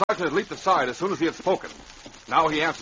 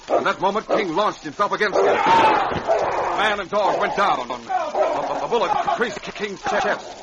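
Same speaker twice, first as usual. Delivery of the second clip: slow, loud dramatic climax; drawn-out, loud climactic narration; 8 semitones higher, 4 dB louder, slower than usual. A narrator's reading.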